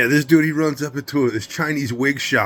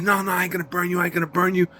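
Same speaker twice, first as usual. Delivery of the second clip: higher-pitched imitation of pleading; mock pleading; 5 semitones higher, faster than usual. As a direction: imitate hasty, high-voiced assurances. Dealer pleading when threatened, retold.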